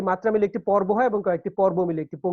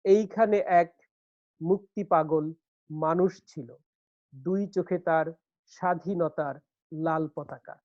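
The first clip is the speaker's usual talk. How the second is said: measured verse, pausing after each short phrase; poetry recitation. Shown as a demonstration. Teacher quoting a poem to show metre, measured recitation. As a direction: recite slowly, foot by foot. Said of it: "আরেকটা কবিতার উদাহরণ দেই".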